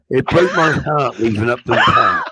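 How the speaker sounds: slow, crooning singer impression. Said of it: "We've got a fucking singer in the building".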